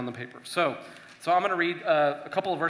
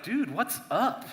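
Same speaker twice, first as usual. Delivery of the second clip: slow, higher mock-casual "Dude, what's up"; casual complaint; 7 semitones higher, slower than usual. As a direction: toss it at God like an old friend. David's complaint voiced casually.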